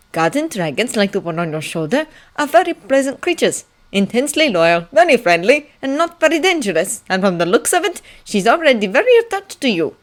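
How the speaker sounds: lightly voiced old bookkeeper, persuasive; a hint of an old scholar making a case; old librarian advising. Old librarian vouches for the dragon to the prince, lightly voiced advice.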